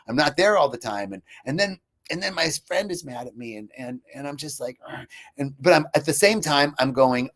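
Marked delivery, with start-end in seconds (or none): 4.9-5.1 short imitated groan of frustration; exasperated groan. Retelling his friend being mad, exasperated groan. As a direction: groan as if fed up.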